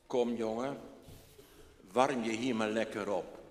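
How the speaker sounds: a hint of a welcoming grandfather; kind old man. Old man welcoming the boy to warm up, gentle.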